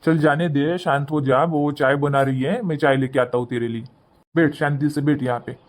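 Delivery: soothing. Acted. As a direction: settle mother down gently. Son calms his upset mother.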